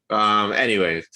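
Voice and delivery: ordinary talk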